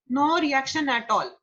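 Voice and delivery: slow emphatic repeat. Shown as a demonstration. Teacher repeating a definition for students, slow and deliberate. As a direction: drive the point home slowly. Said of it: "flat effect is no reaction at all".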